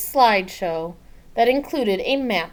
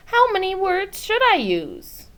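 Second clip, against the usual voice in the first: put-on eager child; 12 semitones higher, 6 dB louder than usual.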